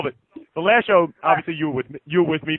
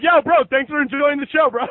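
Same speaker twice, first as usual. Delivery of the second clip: a higher, pumped-up bro; hyped bro voice; 7 semitones higher than usual. Retold or imitated. Wrestler to a fan after the match, hyped bro voice. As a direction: play it up like a grateful wrestler. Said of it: "I'm like, I'm like".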